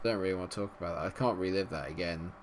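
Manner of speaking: ordinary talk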